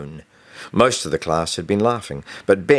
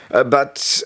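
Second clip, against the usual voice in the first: hesitant; 6 semitones higher than usual. Acted. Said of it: "Blocker began".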